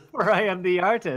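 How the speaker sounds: lighter villain proclamation through a laugh; half-laughing mock villain line. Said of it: "you have a villain voice".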